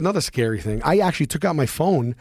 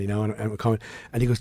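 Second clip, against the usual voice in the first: ordinary talk, nothing marked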